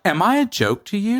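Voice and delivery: high-pitched mock indignation; offended alien. Offended alien confronting the podcasters, mock indignation. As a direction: play the affronted extraterrestrial. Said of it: "an alien out there who's very offended".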